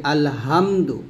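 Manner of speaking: আলহামদু with a light, unpressed h; common mispronunciation. Shown as a demonstration. Teacher showing learners the common mistake, mispronounced. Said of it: "এই যে হাটাকে হা বলি".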